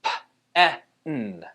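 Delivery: "P, E, N" one sound at a time; puffed P, short eh, hummed N. Shown as a demonstration. Teacher gives the second syllable, sounded out. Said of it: "second syllable".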